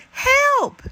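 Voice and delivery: high, loud cry of Help!; shout for help. Acted. Hedgehog curled into a ball crying for help, loud high shout. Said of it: "he shouted louder than before".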